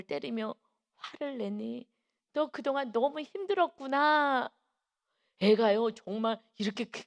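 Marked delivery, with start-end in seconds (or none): 2.3-4.5 slow, higher-pitched tender sympathy; comforting empathy. Retold or imitated. Teacher consoling an angry child, slow comforting empathy. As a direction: draw it out soothingly, as if to a hurting child.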